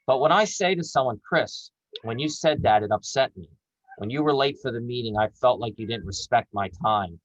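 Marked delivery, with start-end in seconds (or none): 1.3-7.2 calm cultured manner. Shown as a demonstration. Coach showing how to tell a colleague calmly you feel disrespected. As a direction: say it calmly, no temper. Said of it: "in calm manners".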